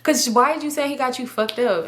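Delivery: hushed whisper so the caller can't hear. Retold or imitated. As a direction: whisper urgently to your friend. Whispering to friend during call.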